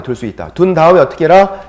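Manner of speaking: ordinary talk, nothing marked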